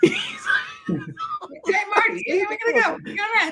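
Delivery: high laughing shout to wake someone; calling out, laughing. Retold or imitated. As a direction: yell his name through laughter like rousing a sleeper. Waking Marty in closet.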